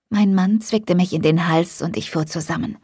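usual speaking voice

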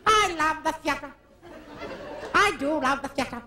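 mock luvvie voice; theatrical gush. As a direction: gush like a vain old stage star. Grand actor gushing.

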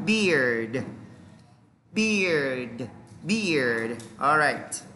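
"Beard" drawn out in one low, falling syllable; pronunciation demo. Shown as a demonstration. Teacher models the dictionary pronunciation for students, careful demo. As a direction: repeat "Beard" slowly, with a gap after each. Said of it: "Đây là cách phát âm".

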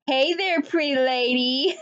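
a light imitation of a country accent. John greeting her at the hookah bar, mild imitated country accent. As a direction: retell his line in a mild country accent. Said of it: "in a country accent".

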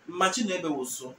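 manchi ne uyebe woso run together quickly, the way it is said fast in everyday speech; quick natural teacher demo of manchi ne uyebe woso. Shown as a demonstration. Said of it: "when we say it fast".

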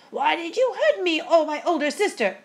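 high-pitched, wounded ghost sister; crying out, hurt. A narrator's reading. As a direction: whine in pained accusation at your sister. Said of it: "she cried".

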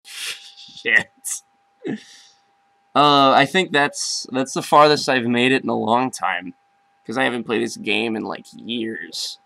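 soft, defeated murmur; deflated after losing; dejected and quiet. Real, not acted.

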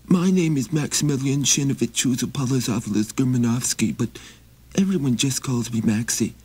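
high, pleading little traveler; high begging wanderer voice; Maxie voice. Acted. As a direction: raise the pitch and ask humbly. Maxie introduces himself.

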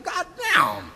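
stunned, half-swallowed cursing; muttered to myself. Retold or imitated. Talking to himself after being told to carry the bag. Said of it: "I said this to myself".

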